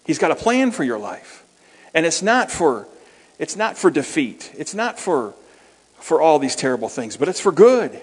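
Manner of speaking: lightly re-preach the invitation with fervour; mildly impassioned outreach preaching; preaching to visitors. Retold or imitated. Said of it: "But you do have to say".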